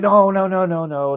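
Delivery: high string of quick denials, easing down; retold denial. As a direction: rush to correct him, starting high. Acted quote of daughter denying it.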